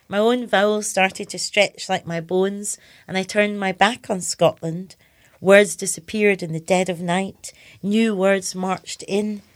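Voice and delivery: slow, measured poem recital; poetry reading. Acted. Poet reading her poem about losing her Scottish accent, measured recital. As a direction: read it line by line, unhurried. Reads own poem aloud.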